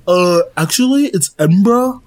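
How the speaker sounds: mock know-it-all correcting someone; pretentious. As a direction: correct them with affected superiority. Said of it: "a more pretentious person being like".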